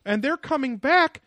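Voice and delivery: high, mocking breathless conspiracy voice; David Wilcock. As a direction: ham it up like an excitable guru.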